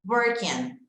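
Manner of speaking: "Working" said "worken" with a clear N; strong N. Shown as a demonstration. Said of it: "Esse N é bem acentuado".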